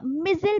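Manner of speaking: मिसाइल said as mizzle, "mɪzɪl"; मिसाइल with a short second syllable, like missal; American pronunciation. Shown as a demonstration. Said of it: "America में इसको ... पढ़ा जाता है". (मिसाइल को "मिज़िल" की तरह बोलें)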